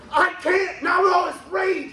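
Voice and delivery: a hint of a fiance's voice, mock refusal. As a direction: push him away, a hint of a shrill girlfriend. Fiance refuses him, retold.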